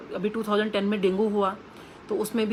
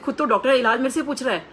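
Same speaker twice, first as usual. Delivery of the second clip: louder, higher playful teasing; hammed-up ribbing of the doctor; jovial teasing guru; 3 semitones higher, 4 dB louder than usual. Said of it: "मतलब, ऐसे type में". (ऊँची, ज़ोरदार मज़ाकिया आवाज़ में छेड़ना)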